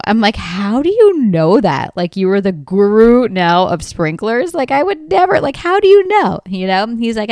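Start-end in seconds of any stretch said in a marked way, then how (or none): 0.4-6.4 incredulous challenge. Retold or imitated. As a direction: challenge him loudly, as if incredulous. Retold challenge to handyman's claim.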